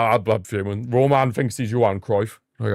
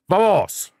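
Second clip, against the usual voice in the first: excited cheer; 9 semitones higher than usual. Real, not acted. Cheering his team.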